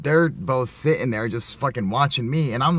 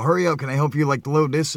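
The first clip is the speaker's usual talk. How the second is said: higher, louder pushy voice mimicking the guy hurrying him; impatient rusher; 5 semitones higher, 6 dB louder than usual. The guy hurrying him to load the van, mock pushy. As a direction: rush him along, impatient. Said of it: "rushing me the whole fucking time".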